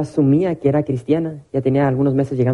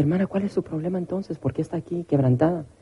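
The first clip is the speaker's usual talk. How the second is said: softer counseling voice, retold; acted gentle questioning; 4 semitones higher, 7 dB quieter than usual. Pastor asking a broken woman her problem, softly acted. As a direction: drop the volume to ask her, as retold. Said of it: "Y le dije".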